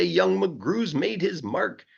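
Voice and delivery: high, slow grand announcing voice; proud proclamation. Acted. The whole world hailing McGrew's zoo, proclaiming slowly.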